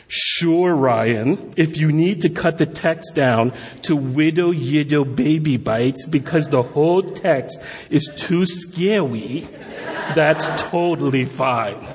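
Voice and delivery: dry, teasing sarcastic read of a friend's email; mock sarcasm. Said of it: "I'm gonna do sarcasm because it definitely was sarcastic".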